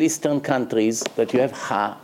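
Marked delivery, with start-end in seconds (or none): 1.5-2.0 "ha" breathed from the throat; guttural "ha" pushed from the throat; low throat "ha"; throaty ha. Shown as a demonstration. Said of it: "comes from the throat".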